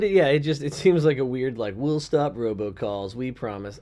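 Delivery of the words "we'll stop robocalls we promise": low, slow, soft mumble; sarcastic mock. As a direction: drone it out insincerely. Mocking the companies.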